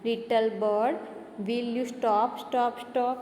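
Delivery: a teacher's mild calling-out demo. Shown as a demonstration. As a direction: call to the little bird as if shouting. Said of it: "उसका meaning चिल्लाना".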